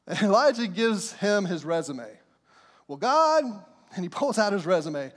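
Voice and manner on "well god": high, whiny self-pity; hammed-up whimper of complaint; pity party whine. Elijah whines his resume to God in a high self-pitying voice. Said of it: "doing the whole pity party".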